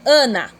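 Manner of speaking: "Ana" as a brief exclamation; exclaimed name. Shown as a demonstration. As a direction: exclaim "Ana" like a vocative example. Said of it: "Então, eu vou exclamar". ("Ana" exclamado)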